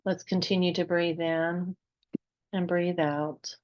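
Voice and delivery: unhurried meditation guide, long pauses between phrases; guided meditation. Real, not acted. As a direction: gently lead listeners into relaxation, phrase by phrase.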